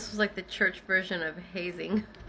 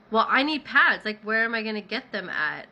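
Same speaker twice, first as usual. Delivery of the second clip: upset protest; 5 dB louder than usual. Retold or imitated. Arguing with the leader who won't let her get pads, exasperated. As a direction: push back hard, frustrated.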